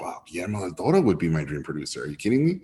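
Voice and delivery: breathless hushed whisper of disbelief; awed whisper. Retold or imitated. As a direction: whisper it like a dream coming true. Imagining dream producer reply, awed.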